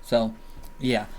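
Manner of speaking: talking through a swollen mouth; words slurred by swelling. Real, not acted. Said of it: "sorry I'm talking weird. Very swollen now".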